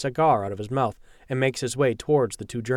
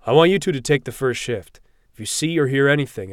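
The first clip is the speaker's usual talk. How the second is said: commanding; 2 semitones higher, 6 dB louder than usual. Acted. Captain gives orders.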